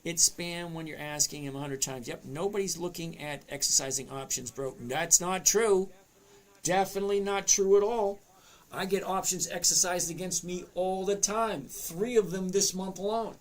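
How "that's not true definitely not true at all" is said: firm, raised voice; emphatic louder denial. Real, not acted. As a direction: push back hard and loud. Disputing a comment.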